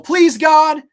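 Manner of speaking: high, loud mock cry for mercy; imitated terrified plea. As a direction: cry out as the panicked victim. Victim's plea acted out.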